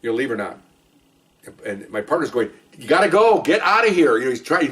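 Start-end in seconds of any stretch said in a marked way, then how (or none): 2.8-4.2 loud, higher yell to get out. Retold or imitated. Partner yelling at his wife to leave, loud. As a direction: order her off the course.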